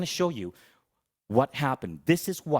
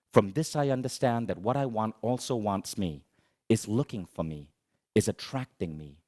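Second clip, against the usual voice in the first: reciting a poem; 2 semitones lower than usual. Shown as a demonstration. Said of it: "the Rumi?".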